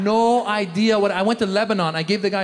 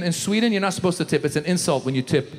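ordinary talk, nothing marked

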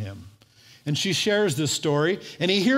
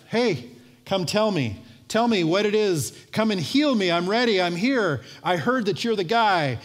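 lightly acted eager summons, pitched up; eager demand; 4 semitones higher than usual. Naaman outside Elisha's house, eagerly demanding healing. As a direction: call out as an expectant great man.

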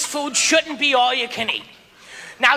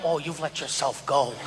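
quiet aside; 12 semitones lower, 8 dB quieter than usual. Retold or imitated. Quiet remark to sumo.

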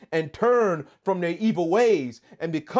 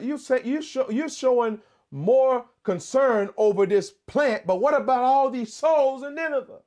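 reproving God; 7 semitones higher than usual. Acted. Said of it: "He was like".

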